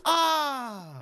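high mock gasp of understanding; sudden realization. The audience realizing he stutters, mock surprised ah. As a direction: audience finally getting it, a light mock ah. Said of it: "E o pessoal".

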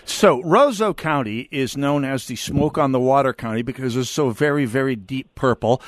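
straining to keep a straight face; deadpan, holding back laughter; trying not to laugh. Real, not acted. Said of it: "I can't keep a straight face".

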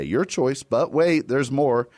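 infomercial voice. Pretend. Infomercial pitch parody.

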